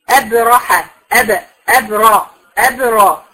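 slow demo of أبرى with a full, open heavy r. Shown as a demonstration. Teacher shows that the ra itself is open, sounded out slowly. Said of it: "الراء نفسها مفتوحة".

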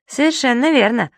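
proud of himself; pleased. A narrator's reading. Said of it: "ответил довольный Зубастик".

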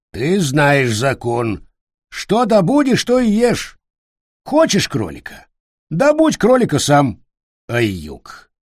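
high creaky lecturing voice; stern creaky creature. A narrator's reading. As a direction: lay down the law, creaky. Gol lectures.

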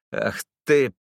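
a sudden cry, beside himself; outraged cry. A narrator's reading. Enraged driver cries out at the sneering informer. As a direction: burst out in fury before the punch. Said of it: "вскрикнул я вне себя".

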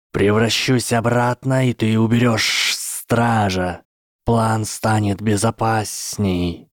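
slow clipped serpent orders; curt commands. Acted. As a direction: bark orders like a cold snake. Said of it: "отрывистые команды".

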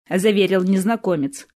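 ordinary delivery

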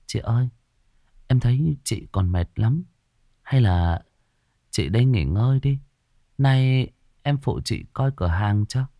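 kindly, unhurried offer of help; gentle consoling. Acted. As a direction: comfort a tired boss gently. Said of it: "Hằng nhẹ nhàng an ủi".

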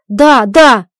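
loud shout, stamping. Acted. Husband shouts at wife, loud frantic yell. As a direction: yell it out in frustration. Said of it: "Кричит".

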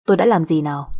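mildly irritated, firm retort; annoyed. Acted. Husband answering crying wife's accusation, mildly annoyed. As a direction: push back with a touch of annoyance. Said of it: "Chú ngồi dậy bực mình nhìn tôi khóc".

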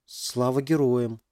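slow, unsure repeat of the greeting; half-questioning. Acted. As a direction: try the words out, half asking. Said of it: "полувопросительно повторил Макс".

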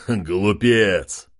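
contemptuous king's jeer; mock him grandly; scornful. King mocks the chief, scornful. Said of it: "расхохотался король".

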